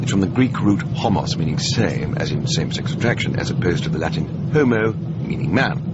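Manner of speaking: pedantic explaining. Acted. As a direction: spell it out like a fussy tutor. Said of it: "if it's worth saying, you may as well say it correctly".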